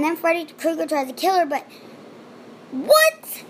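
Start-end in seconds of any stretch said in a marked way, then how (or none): 2.7-3.4 high squeaked what; a shocked squeak of disbelief; baffled what. Real, not acted. Vlogger reacting to a weird scene, high and baffled.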